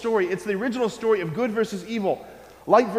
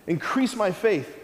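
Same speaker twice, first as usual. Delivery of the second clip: earnest prayer; slower than usual. Shown as a demonstration. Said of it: "our prayer every day has to be".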